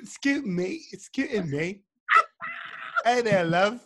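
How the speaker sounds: playful mock British accent. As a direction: try out British catchphrases, lightly put on. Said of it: "you don't got a British accent".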